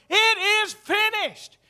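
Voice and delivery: high, slow, full-voiced shout; Jesus. Jesus crying out on the cross, loud shout. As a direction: cry it out word by word. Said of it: "he shouted in a loud voice".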